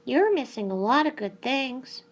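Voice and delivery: high-pitched hen voice; hen character. A narrator's reading. Hen tells the peacock what he misses, pitched high.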